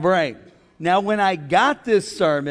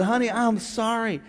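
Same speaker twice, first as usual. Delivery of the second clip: gentle apology; 4 semitones higher than usual. Retold or imitated. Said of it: "looked at her and said".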